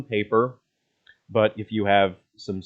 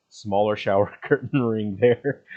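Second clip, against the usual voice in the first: breaking into a laugh mid-line; can't keep a straight face; 3 dB louder than usual. Real, not acted. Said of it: "I tried to keep a face, straight face".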